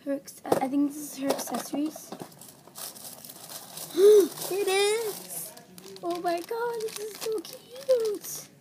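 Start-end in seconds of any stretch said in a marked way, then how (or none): 3.9-5.5 loud gasp, then a higher squeal; delighted gasp. Real, not acted. Finds the accessories. 6.0-8.5 much higher, slow gushing squeal. Real, not acted. Seeing the accessories.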